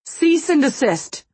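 slow, loud official command; TV cop voice. A narrator's reading. Aging mobster ordering an attacker to stop, TV cop voice. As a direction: order it like a Dragnet policeman. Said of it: "as if he'd been watching reruns of Dragnet".

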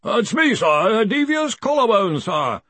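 high, hesitant caller's voice; voice from the omniscope. Acted. Researcher reporting to his superior over the omniscope, nervous. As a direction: call in nervously, pitched well up. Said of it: "said a voice from the omniscope".

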